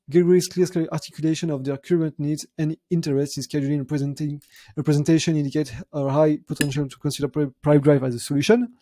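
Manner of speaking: English read with a heavy French accent; self-mocking French accent in English. Real, not acted. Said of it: "Vous voyez mon bel accent anglais".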